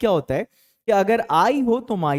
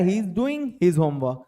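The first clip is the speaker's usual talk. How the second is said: very slow, each word laid out; slow model sentence; much slower than usual. Shown as a demonstration. Teacher modelling the answer for his class, slow and clear. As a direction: model the sentence slowly for learners. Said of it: "अगर ऐसा हो कि वो अपना homework कर रहा है".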